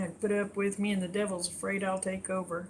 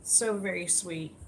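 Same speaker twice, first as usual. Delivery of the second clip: tender; 3 semitones lower, 4 dB quieter than usual. Real, not acted. Streamer softly echoing thanks to kind viewers, tender and quiet. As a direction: murmur it fondly to yourself. Repeats praise after shout outs.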